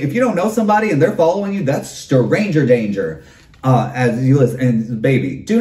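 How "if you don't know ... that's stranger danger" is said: mama's warning. Retold or imitated. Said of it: "my mama used to say".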